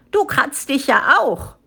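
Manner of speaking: mock yell of protest; protesting cry. A narrator's reading. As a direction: throw it back as cheeky youngsters. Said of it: "schrien die jungen Mädchen und jungen Männer".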